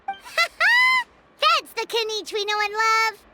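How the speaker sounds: a laugh that rolls into a slow, cheerful shout. Acted. Companion laughing as she praises Kenichi, slow cheerful shout. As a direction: cheer him on through a laugh.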